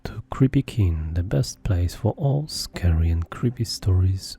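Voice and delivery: hushed, breathy creepy welcome; late-night horror host whispering a welcome; whispered host intro. A narrator's reading. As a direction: draw listeners in with a spooky whisper. Host intro over music.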